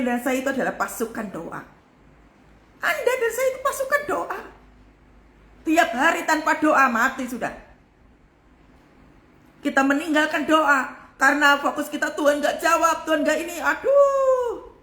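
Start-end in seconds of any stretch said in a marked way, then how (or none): 2.8-4.4 much higher, strained pitch; pitched-up exhortation to the congregation; high-pitched repeat. Real, not acted. 12.2-14.7 mock whining believer, rising to a high drawn-out "aduh"; exaggerated grumbling at God; milk-drinker's complaint. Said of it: "kualitas kalau sering minum susu kayak begini".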